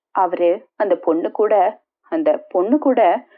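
slow, halting, words drawn out; reluctant confession. Acted. Wife haltingly tells her husband's friend of the affair. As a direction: falter and stall before the painful part.

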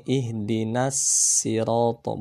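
"sirato" with a plain sharp s, not the heavy sad; recited with a pure sin; pure sin reading. Shown as a demonstration. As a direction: recite "sirato" with a light clean s. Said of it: "ke sin murni".

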